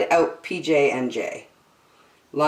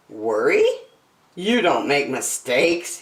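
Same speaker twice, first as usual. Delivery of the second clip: smiling; 2 semitones lower than usual. Acted. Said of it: "he said with a smile".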